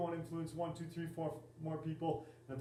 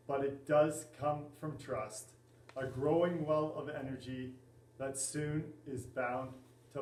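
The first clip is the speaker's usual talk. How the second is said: poem recitation. Acted. Coach reading a poem on enthusiasm to the class, measured recitation.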